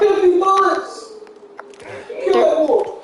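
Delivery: shouting at his buddy to shoot the wolf; urgent shout. Real, not acted. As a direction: bark the order at your teammate. Yelling orders at gaming friend.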